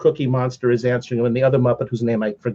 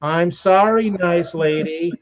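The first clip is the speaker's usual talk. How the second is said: put-on kids in chorus; 2 semitones higher, slower than usual. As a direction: chant it like a room of children. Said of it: "all the kids go".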